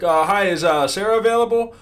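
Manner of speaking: squeaky, loud caricature of a stiff sales call; mocking the supervisor. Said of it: "on the phone call and he's like".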